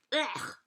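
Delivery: short grunt of disgust; disgusted ugh. A narrator's reading. Gosling being fed by the bear, disgusted ugh. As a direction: grunt your dislike of the food. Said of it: "they're not very appreciative".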